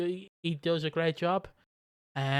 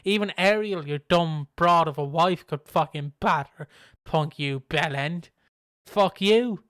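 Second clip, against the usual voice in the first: sneering taunts that build to a louder fuck you; mocking insult; 4 dB louder than usual. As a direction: rub it in with a smug sneer. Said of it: "And he's like".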